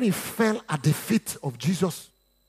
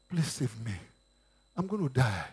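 pleading; 7 semitones lower, 9 dB quieter than usual. Acted. Esther pleading with the king.

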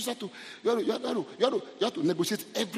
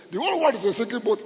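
loud, high proclamation; emphatic retort; 7 semitones higher, 7 dB louder than usual. Retold or imitated. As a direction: declare it forcefully as God's reply. Voices God's answer to man.

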